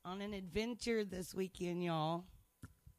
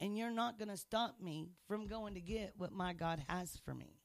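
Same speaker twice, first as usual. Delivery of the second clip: defiant scolding; 4 semitones higher than usual. Retold or imitated. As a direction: stand up to the devil, sharply. Telling off the devil.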